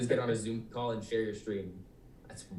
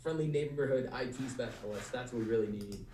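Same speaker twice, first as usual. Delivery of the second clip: hallway echo; 4 dB louder than usual. Real, not acted. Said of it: "I sound like I'm in the hallway".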